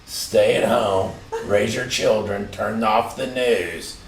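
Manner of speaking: cult leader. Pretend. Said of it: "doesn't sound like a cult leader at all".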